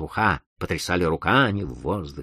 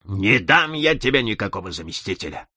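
shouting; 7 semitones higher, 3 dB louder than usual. Acted. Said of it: "закричал дедушкин".

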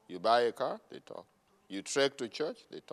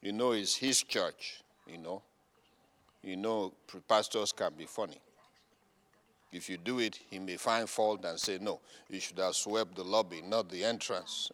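lower, softer gossip voice; mock gossiping members; 8 semitones lower, 7 dB quieter than usual. Members gossip about the pastor in a soft low mutter. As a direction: murmur like idle church folk. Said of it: "lazy members voiced".

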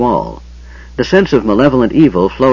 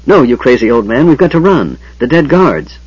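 urgent shout; 4 semitones higher, 4 dB louder than usual. Acted. Tanis urgently warns Fizban.

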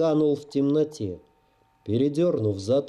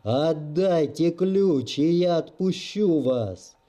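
ominous booming voice; slower than usual. Acted. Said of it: "зловещий голос".

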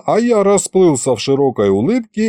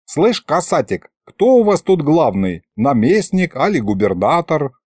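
put-on higher-pitched old man probing an officer; lightly voiced folksy grandpa, quizzing; 3 semitones higher than usual. Grandpa asks an officer who is in charge, folksy quizzing. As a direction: ask like a familiar village grandpa, pitched up.

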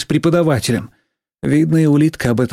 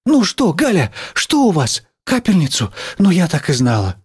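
higher-pitched worried phone talk; anxious teacher; 5 semitones higher than usual. Acted. Teacher asking Галя about the sick little one, worried. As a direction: question and comfort over the phone.

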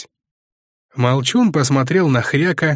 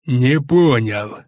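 slow wheezing disbelief; hoarse rasp; much slower than usual. A narrator's reading. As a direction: rasp it slowly, bristling. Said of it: "просипел главный". (сиплый медленный голос)

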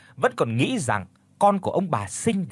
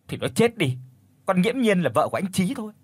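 cold voice; 6 semitones higher than usual. Acted. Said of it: "nói với cái giọng lạnh lùng".

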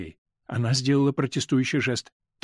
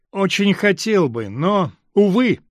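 playful; 5 semitones higher, 5 dB louder, slower than usual. A narrator's reading. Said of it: "подхватывая её шутливый тон".

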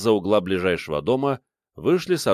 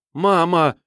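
high, louder involuntary cry; startled cry; 9 semitones higher, 5 dB louder than usual. A narrator's reading. Hero blurting a cry when a gun turns on him, high loud. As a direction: blurt it out in fright.

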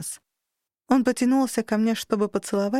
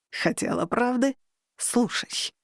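plain reading voice

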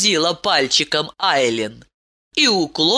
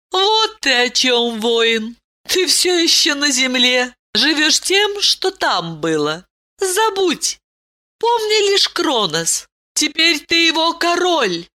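higher princess voice, insistent; urging princess; 10 semitones higher than usual. A narrator's reading. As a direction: urge her husband to forget Earth. Ailin urges Andrey. (настойчивая принцесса, высокий голос)

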